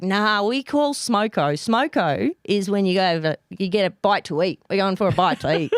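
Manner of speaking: lightly broadened bogan Australian; bogan accent. Retold or imitated. Australian explaining Smoko to puzzled Americans, light bogan accent. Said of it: "I can't do it really well".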